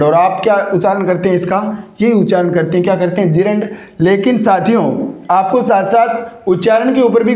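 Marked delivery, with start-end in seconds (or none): 3.3-3.7 "gerund" said as JEE-rund, long ee first; mispronounced gerund. Shown as a demonstration. Teacher showing students a common error, gerund mispronounced as JEE-rund. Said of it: "उच्चारण गलत करते हैं".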